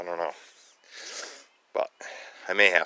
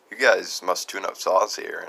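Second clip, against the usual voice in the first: laughing; 3 dB louder, slower than usual. Retold or imitated. Laughing while quoting himself.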